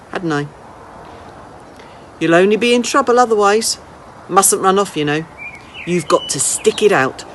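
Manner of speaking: put-on an old lady teasing a runaway boy, then inviting him in; lightly voiced old lady.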